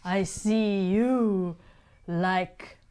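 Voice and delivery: put-on slow, lightly snooty old woman; snooty matriarch. A touch of snooty Grandolpha prying for the dirt. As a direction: savour each word, faintly superior. Grandolpha questions the captured cat.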